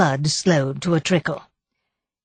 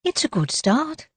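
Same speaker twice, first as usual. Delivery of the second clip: higher, gently encouraging; 8 semitones higher, 4 dB quieter than usual. A narrator's reading. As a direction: encourage her with a light lift. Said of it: "said Daisy encouragingly".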